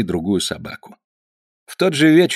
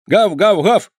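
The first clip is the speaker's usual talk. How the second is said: higher, louder yapping barks; yapping dog; 9 semitones higher, 4 dB louder, slower than usual. A narrator's reading. The poodle Teddy greets the boys, yapping. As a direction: bark like a little poodle. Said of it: "затявкал Тедди".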